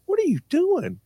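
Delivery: high-pitched mock scolding question; mother catching child. Mother calling from the car door to her child, scolding.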